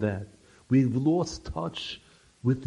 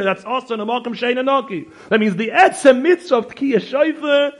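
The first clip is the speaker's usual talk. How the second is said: raised, high preacher's voice; fervent preaching; 8 semitones higher, 11 dB louder than usual. Acted. Rabbi teaching the congregation about preparation, fervent preaching. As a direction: drive the point home to the congregation.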